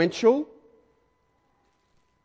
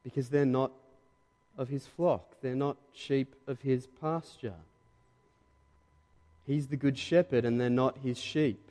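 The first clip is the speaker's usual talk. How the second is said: quiet; 7 dB quieter than usual. Real, not acted. Preacher drops voice after climax.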